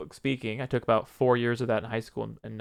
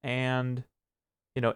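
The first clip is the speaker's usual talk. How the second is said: filler word demo; slower than usual. Shown as a demonstration. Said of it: "So if I say this".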